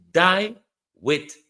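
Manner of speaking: "Die" punched loud, then falling "in dignity"; loud mock quote of the PM. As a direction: hurl the PM's words back with contempt. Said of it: "said the Prime Minister".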